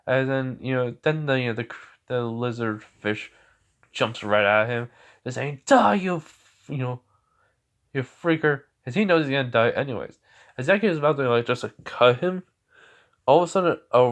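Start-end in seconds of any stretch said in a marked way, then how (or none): 5.7-8.6 high, loud furious attack cry; furious demon shout; demon's snarl. Acted. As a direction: scream it while lunging. Demon lunges screaming.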